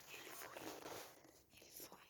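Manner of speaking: slow faint whisper; whisper, holding breath. Real, not acted. Dad leaves into dark. (sussurro lento)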